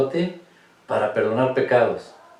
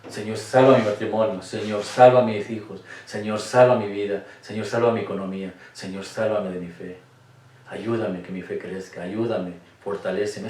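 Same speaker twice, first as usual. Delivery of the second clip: pleading prayer; 2 semitones lower than usual. Shown as a demonstration. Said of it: "La oración más pequeña es esta". (oración suplicante que empieza fuerte y termina en voz baja)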